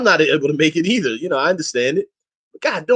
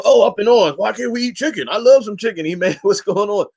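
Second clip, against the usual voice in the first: hammed-up griping about chicken; mock complaining crowd; 4 semitones higher than usual. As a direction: whine like upset congregants. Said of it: "Everybody go".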